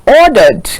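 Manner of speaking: ordered said slowly and firmly; stress on ordered. Shown as a demonstration. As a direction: lean on the word ordered. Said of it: "emphasis on the word ordered".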